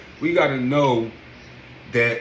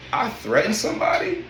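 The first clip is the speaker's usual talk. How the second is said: higher-pitched, incredulous question; 5 semitones higher than usual. Retold or imitated. Member accused of a threat over the phone, incredulous. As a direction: act out mild disbelief at the accusation. Retold reaction to being accused.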